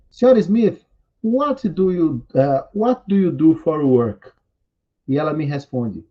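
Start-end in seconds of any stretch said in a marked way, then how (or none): 0.1-4.3 acted question. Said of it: "Eu pergunto então à senhora Smith".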